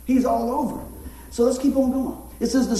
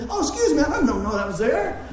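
mock polite; 4 semitones higher than usual. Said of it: "You wanna say".

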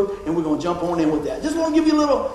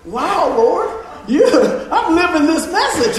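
laughing; 10 semitones higher, 6 dB louder than usual. Real, not acted. Laughing while retelling the ride.

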